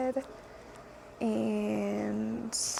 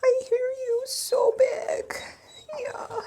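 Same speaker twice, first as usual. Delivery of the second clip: calling to the dog; 11 semitones higher than usual. Real, not acted. Talking to the dog.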